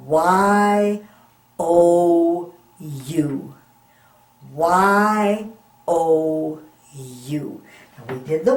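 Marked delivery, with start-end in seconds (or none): 0.1-3.5 Y O U spelled out letter by letter; spelling out. Shown as a demonstration. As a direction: spell each letter clearly. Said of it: "it is spelled".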